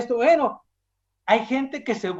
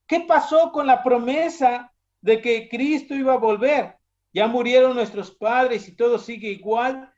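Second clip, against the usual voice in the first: higher-pitched scoffing challenge; mocking question; 4 semitones higher, 3 dB louder than usual. Scoffers taunt believers about Christ's return, mockingly. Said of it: "en son de burla preguntará".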